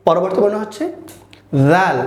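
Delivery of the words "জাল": জাল opening on a voiced th, air between the teeth; airy dental sound. Shown as a demonstration. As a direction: let breath buzz through the teeth to start জাল. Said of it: "দাঁতের মাঝখান দিয়ে বাতাস ছেড়ে দিয়ে বলবো". (দাঁতের ফাঁকে বাতাস ছেড়ে জাল)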